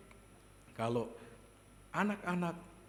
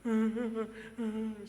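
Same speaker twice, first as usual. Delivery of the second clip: mimicked higher-pitched sobs; tiruan tangis; 7 semitones higher than usual. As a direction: imitate a child sobbing in short pulses. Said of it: "dia ikut melotot tapi nangis". (menirukan isak tangis anak)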